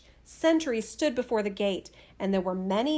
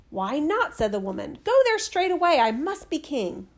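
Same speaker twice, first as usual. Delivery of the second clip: higher and louder, a sharp command; commanding wife; 5 semitones higher, 4 dB louder than usual. Acted. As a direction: order him off with no room to argue. Wife orders husband to go.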